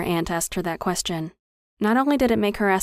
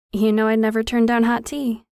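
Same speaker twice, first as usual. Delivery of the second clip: higher, lightly forced brightness; forced cheer; 4 semitones higher, 4 dB louder than usual. A narrator's reading. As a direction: put on a touch of cheer for your aunt. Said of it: "forcing a laugh".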